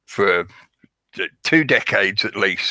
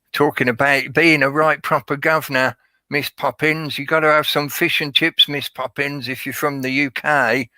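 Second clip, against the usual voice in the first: higher-pitched, hammed-up Cockney movie accent; terrible Cockney; 5 semitones higher than usual. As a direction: do a badly faked Cockney, pitched up. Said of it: "the terrible Cockney accent that he does".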